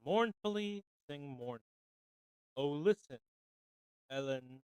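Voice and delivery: measured, lilting ballad reading with mournful refrains; poem recital. Acted. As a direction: recite it like an old sorrowful ballad. Reads a ballad aloud.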